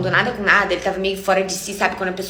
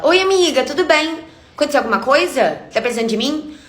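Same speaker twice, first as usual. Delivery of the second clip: sweet friend voice; 6 semitones higher than usual. Retold or imitated. Friend answering her late-night call, a high sugary imitation. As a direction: mimic the friend's falsely sweet phone greeting. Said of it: "Aí ela".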